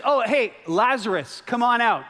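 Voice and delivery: high, loud, breezy call; casual Jesus. Acted. Jesus casually calling Lazarus out, high and loud. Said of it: "And then he says".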